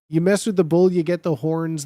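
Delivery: a light macho threat, lightly voiced; white boy bully threat. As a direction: puff up like a teenage bully, lightly. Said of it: "that's the worst white boy you know".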